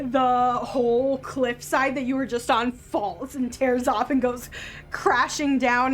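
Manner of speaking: ordinary talk, nothing marked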